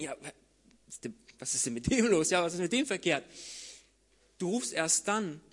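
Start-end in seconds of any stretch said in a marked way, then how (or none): 0.0-3.2 puzzled onlookers. Retold or imitated. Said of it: "Dann würden die Leute wirklich denken".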